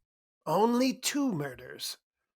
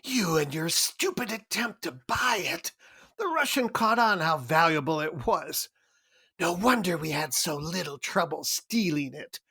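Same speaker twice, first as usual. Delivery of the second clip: furious berating. Acted. Cairo berating Gutman over failure.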